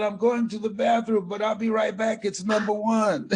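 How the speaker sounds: loud, high and laughing; excited. Retold or imitated. Telling Robert Schuller on the phone he must run to the bathroom, laughing excitedly. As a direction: blurt it out, too thrilled to hold still. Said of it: "I was so excited".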